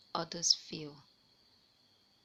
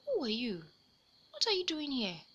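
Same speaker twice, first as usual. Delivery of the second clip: put-on a touch of a bold young detective; mildly brave, pitching up on the second question; little boy putting on a brave front; 5 semitones higher than usual. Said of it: "He asked in a brave voice".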